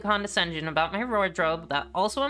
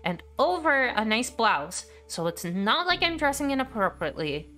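a heated rant, somewhat higher throughout; 5 semitones higher than usual. Acted. Writing an email to Charlie, she vents in a heated rant. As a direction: vent your frustration in one long heated stream. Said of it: "Can I rant for a second?".

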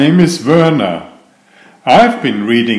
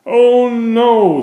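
alarmed; 10 semitones higher than usual. Acted. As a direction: yelp it in sudden panic. Turkey panics at dinner plan.

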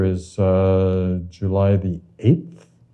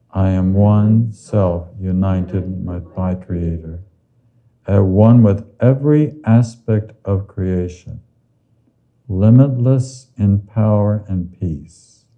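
slow affirmation. Shown as a demonstration. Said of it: "Say with me".

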